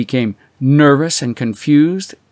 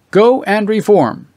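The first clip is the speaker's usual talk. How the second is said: higher, louder and slower, mock-solemn; mocking inscription; 8 semitones higher, 5 dB louder than usual. A narrator's reading. Reading the coin's mocking words aloud, mock-solemn. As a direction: intone it like a sneering verdict.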